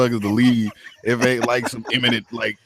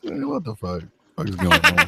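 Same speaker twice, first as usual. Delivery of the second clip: mock outrage; 9 semitones higher than usual. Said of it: "I'm like".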